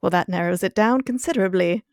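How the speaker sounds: put-on playful British accent, dry and amused; British Giles impression. Podcaster voicing Giles for a co-host, in a British accent. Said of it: "I love these impressions".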